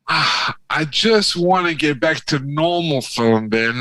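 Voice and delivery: lightly acted weary complainer; a touch of whiny impatience; mock pleading everyman. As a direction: plead to have normal life back. Voices a pro-vaccine everyman.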